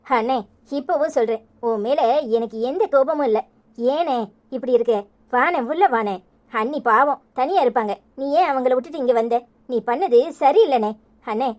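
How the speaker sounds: mildly subdued, tender sisterly tone; understated, caring and soothing; gentle reassurance. Acted. Sister gently reassures troubled brother.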